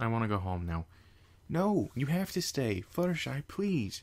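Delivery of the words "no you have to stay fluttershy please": earnest, high-pitched pleading, begging tone. As her friend heads for her bag to leave, a pony: begging. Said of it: "Twilight begged".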